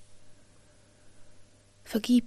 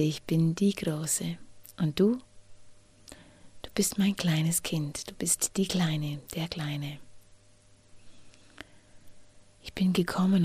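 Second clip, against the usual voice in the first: tender reassurance. Pretend. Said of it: "und sag diesem Kind".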